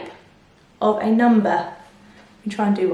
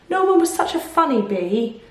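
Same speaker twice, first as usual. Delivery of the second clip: sighed; 3 semitones higher than usual. Acted. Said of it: "sighed the bees".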